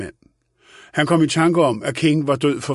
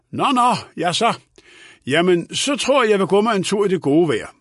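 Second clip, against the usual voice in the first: higher-pitched, lightly voiced old gentleman; oblivious old man; 7 semitones higher than usual. A narrator's reading. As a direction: brush it off and announce an outing. (let ubekymret gammel mand)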